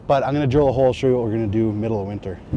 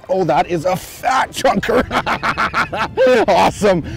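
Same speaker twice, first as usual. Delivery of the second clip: excited; 6 semitones higher than usual. Real, not acted. Admiring big pike.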